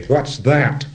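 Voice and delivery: acted voice of authority; authoritative. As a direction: ask it with crisp authority. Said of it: "in an authoritative voice".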